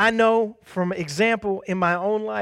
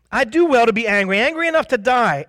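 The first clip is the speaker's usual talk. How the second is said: higher, louder whiny complaint; sulky childish Jonah; 5 semitones higher, 4 dB louder than usual. Pretend. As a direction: act out a pouting child. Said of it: "Jonah is like a child".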